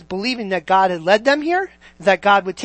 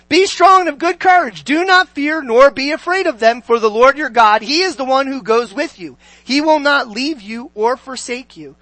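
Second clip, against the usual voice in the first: declamatory preacher reading aloud; scripture reading; 2 semitones higher, 4 dB louder than usual. Acted. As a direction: proclaim the verse to a congregation.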